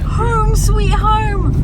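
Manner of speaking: loud, high delighted cry; excited. Real, not acted. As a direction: burst out with joy. Arriving back home.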